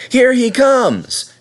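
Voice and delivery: high, loud, slow call; shouting. A narrator's reading. Little boy spotting the guard, calling out high and loud. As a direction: call out across the platform. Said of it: "a little boy shouted".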